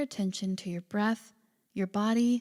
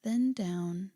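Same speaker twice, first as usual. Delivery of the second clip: calm, unhurried body-scan guidance; guided meditation. Acted. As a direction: gently lead a listener into relaxation, leaving space between phrases.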